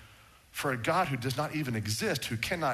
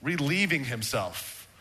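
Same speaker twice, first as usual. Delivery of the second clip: a slow teasing jab at Baal's prophets; sarcastic taunt; 2 semitones higher, slower than usual. Retold or imitated. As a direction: jeer at the prophets. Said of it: "He went there".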